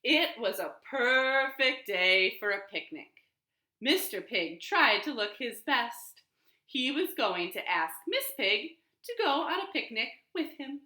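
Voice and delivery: lively storybook narration; reading to children. A narrator's reading. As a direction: read it aloud to a class. Reads picture book to children.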